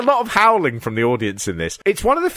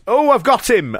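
mock triumph; 8 semitones higher, 3 dB louder than usual. Voicing wrestler catching his opponent.

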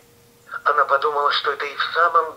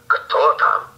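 rough hoarse voice; 4 semitones higher, 3 dB louder than usual. Acted. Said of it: "А голос у него грубый, хриплый".

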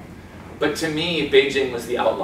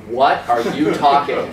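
slow, baffled question; puzzled local; 4 dB louder, slower than usual. Retold or imitated. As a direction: act baffled at the foreigner.

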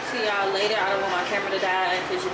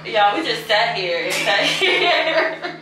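laughing; 3 semitones higher, 6 dB louder, slower than usual. Real, not acted. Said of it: "I'm screaming".

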